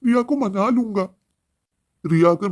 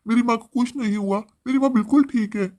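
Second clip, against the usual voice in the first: distressed denial; 4 semitones higher than usual. Acted. Son refuses news of mother's death.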